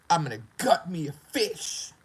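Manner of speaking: slow, whispery threat; menacing whisper. Retold or imitated. Online player threatening to come get him, menacing whisper. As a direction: imitate a creepy threat, stretching it out.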